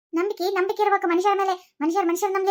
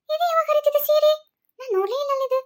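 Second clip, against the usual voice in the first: surprised mother-in-law; 7 semitones higher than usual. Acted. Mother-in-law surprised at torn saree.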